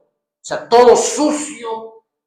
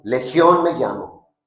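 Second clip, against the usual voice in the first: low, slower, fading to a breath; demon answers; 4 semitones lower, 4 dB quieter, slower than usual. Acted. The demon answering Jesus, low and slow fading out. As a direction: give the demon's name low and dark. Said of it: "Le respondió diciendo".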